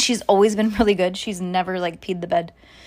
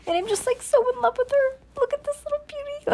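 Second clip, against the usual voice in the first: gushing love; faster than usual. Real, not acted. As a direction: melt over your daughter. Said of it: "I just love my daughter".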